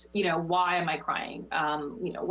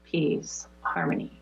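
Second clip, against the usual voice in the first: fading whisper; 4 semitones lower than usual. Shown as a demonstration. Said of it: "repeated words fading".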